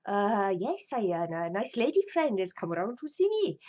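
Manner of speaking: wobbly put-on Welsh drifting towards Indian; Welsh accent turning Indian. Terry explains his lady friend, Welsh accent turning Indian. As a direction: attempt Welsh, slip into an Indian lilt. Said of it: "my Welsh is turning into Indian".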